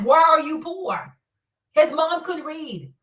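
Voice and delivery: normal talking voice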